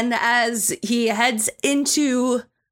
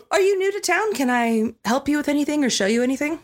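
eager welcome; 6 semitones higher, faster than usual. Acted. Jericho suddenly eager host.

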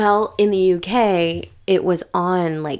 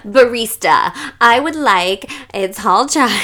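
louder, slow, spelled-out order; texting-style talk; 4 semitones higher, 8 dB louder, slower than usual. Pretend. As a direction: order coffee like reading a text aloud. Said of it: "talking as if I'm texting".

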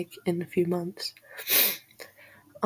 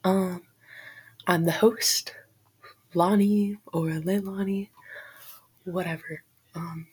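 out of breath; 3 dB louder than usual. Real, not acted. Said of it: "sorry, I'm out of breath".

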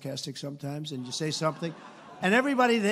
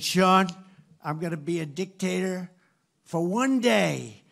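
retold reply; 2 semitones higher, 7 dB louder than usual. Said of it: "I said".

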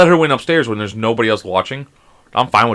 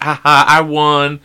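retold gloating; 4 semitones higher, 3 dB louder, slower than usual. Imitates child gloating after race.

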